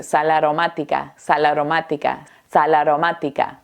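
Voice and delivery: SAL AROMÁTICA joined as "salaromática"; mots liés. Shown as a demonstration. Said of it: "Vamos a decir".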